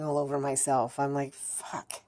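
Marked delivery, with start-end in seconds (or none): 1.3-2.0 very soft, voiceless swear; hushed, defeated swearing; whispered curse. Retold or imitated. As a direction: breathe the curse out in dismay. Despairing reaction to own drooling.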